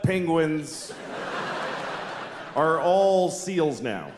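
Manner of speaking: slow, drawn-out TV announcement; mock official announcement. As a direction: spell it out like a scientist addressing the nation. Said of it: "could go on TV tomorrow and say".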